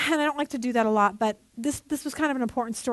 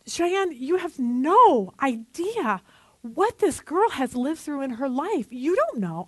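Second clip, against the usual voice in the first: tearful plea; 3 semitones higher, slower than usual. Retold or imitated. Mother to daughter Cheyenne on the phone, tearful plea. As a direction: plead with her through the tears. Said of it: "I started crying".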